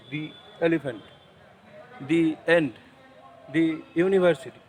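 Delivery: "the" said as thee, long ee, before each word; "the" as thee before vowels. Shown as a demonstration. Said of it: "যেটা vowel দিয়ে শুরু".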